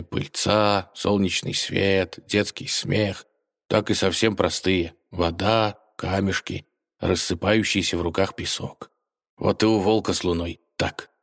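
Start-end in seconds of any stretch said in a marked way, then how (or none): none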